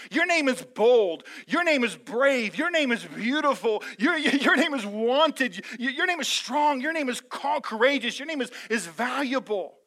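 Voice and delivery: loud, slow, rising declaration of each name; bold declaration. Acted. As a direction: speak each name over them with power. Shepherd declares names, rising.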